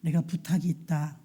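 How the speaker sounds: low-pitched, weighty voice of a captive hero; blind Samson's request. Acted. Samson asks the boy guiding him, low and grave. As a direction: ask a boy for help, low and measured. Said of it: "부축해서 오는 소년에게 말합니다".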